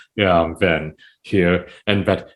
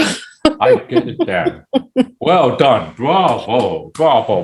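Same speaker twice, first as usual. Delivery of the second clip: mock sarcastic praise; 2 semitones higher, slower than usual. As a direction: tease the author with fake appreciation. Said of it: "I was like".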